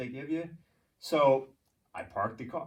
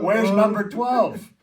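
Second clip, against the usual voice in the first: loud, slow, fed-up shout; loud, slow shout in the snow at night; exasperated yell; 8 semitones higher, 11 dB louder, much slower than usual. Retold or imitated. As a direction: yell it out slowly, at the end of your rope. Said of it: "I'm like".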